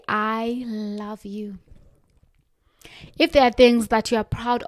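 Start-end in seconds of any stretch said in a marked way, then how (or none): 0.1-1.6 gentle mirror affirmation; slow tender affirmation. Shown as a demonstration. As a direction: say it to your reflection with kindness. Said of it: "and say".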